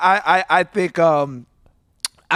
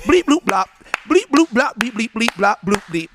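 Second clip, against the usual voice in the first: alien beeps; 2 semitones higher, slower than usual. Pretend. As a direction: beep like a little alien. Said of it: "Translation is".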